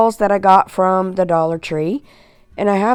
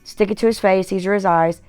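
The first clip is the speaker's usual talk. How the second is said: talking while leaning back in a recliner; reclined, relaxed speech; faster than usual. Real, not acted. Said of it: "I might sound funny, but I'm kicked back in the recliner".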